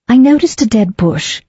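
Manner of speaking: terse. Acted. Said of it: "she said tersely".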